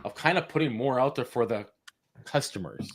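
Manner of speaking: thumping the desk while talking; knocking the desk mid-sentence; banging the desk. Real, not acted. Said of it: "I hit the desk with my desk".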